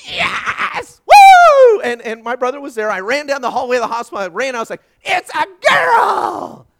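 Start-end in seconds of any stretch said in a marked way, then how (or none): 0.1-1.8 very high, loud whoop of triumph; hammed-up ecstatic cheer; jubilant shout. Re-enacts joy at daughter's birth. 5.0-6.7 long drawn-out, high holler; slow, full-voiced joyful yell; elated shout. Re-enacts shouting news down hallway.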